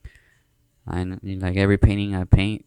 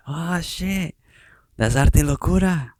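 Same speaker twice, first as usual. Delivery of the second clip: re-enacted high, drawn-out holler; excited yell; 8 semitones higher, slower than usual. Imitating the kid who recognized his logo, excited yell. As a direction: mimic someone yelling out in surprise. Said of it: "And he yells out".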